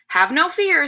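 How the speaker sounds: lightly voiced leader putting someone at ease; reassuring chief. A narrator's reading. Chief calming the worried narrator, lightly acted reassurance. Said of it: "said the chief".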